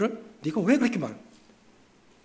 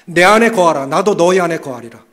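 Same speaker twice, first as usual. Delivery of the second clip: loud recitation; 9 dB louder than usual. Shown as a demonstration. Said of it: "따라해 보십시오".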